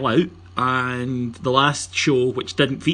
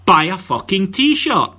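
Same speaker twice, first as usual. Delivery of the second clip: louder, slower, higher, each word hit hard; punchy slogan; 7 semitones higher, 7 dB louder, slower than usual. Shown as a demonstration. Host pitches the podcast t-shirt to listeners, slow punchy shout. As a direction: bark the slogan like a blunt ad. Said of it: "the advertising slogan I've come up with for this is".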